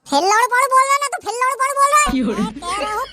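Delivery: angry friend rebuking a rude word. Acted. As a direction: snap at him for the insult. Angry at insult.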